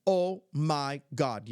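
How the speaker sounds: slow, word-by-word amazement; imitating amazed granddaughter. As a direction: stretch each word like an awestruck child. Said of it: "she said it just like that".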